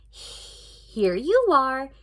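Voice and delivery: very slow, sweetly polite; polite girl. Acted. Dory sweetly handing the witch the tray, very slow. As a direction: offer it too sweetly. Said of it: "said Doris very politely".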